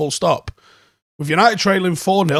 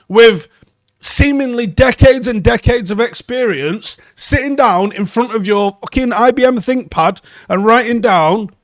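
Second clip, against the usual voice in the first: exasperated rant; 3 semitones higher than usual. Real, not acted. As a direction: tear into the journalist in disbelief. Ranting at journalist over article.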